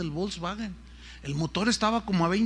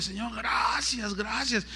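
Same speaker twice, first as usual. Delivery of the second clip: praising God; 4 semitones higher, 4 dB quieter, slower than usual. Retold or imitated. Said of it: "en voz audible".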